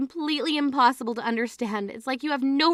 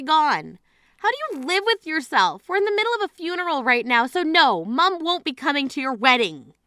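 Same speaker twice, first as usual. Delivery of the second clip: raised, rising furious scolding; angry disbelief; 4 semitones higher than usual. Acted. Sister scolding bride at their mother's funeral, furious disbelief. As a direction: tear into her sister's selfishness.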